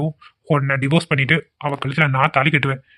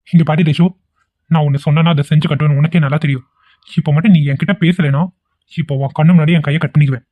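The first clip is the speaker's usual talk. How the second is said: louder, overacted self-harm threat; melodramatic threat; 4 dB louder than usual. Vikram threatens to cut his hand, louder and overacted. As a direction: ham it up like a film hero. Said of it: "சும்மா voice அவ்வளவுதான்".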